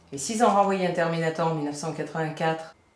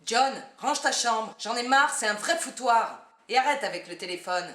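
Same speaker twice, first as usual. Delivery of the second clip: high, slow nagging mother voice; man doing a woman's voice; 8 semitones higher than usual. Acted. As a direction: imitate the mom scolding, pitched up. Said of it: "Tu pourrais imiter ma mère?".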